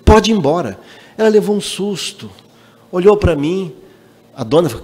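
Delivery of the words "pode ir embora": curt, rude dismissal; mildly mock a boy's rude order to leave. Boy rudely telling the single mother to leave, mock curt. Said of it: "Falei assim, grosseiramente".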